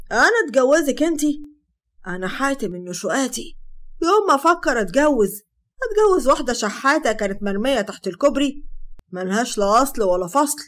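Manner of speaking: loud, scornful disdain; contemptuous. Acted. Hatem to Sara, loud contempt. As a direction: look down on her. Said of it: "بيشاور عليها باحتقار".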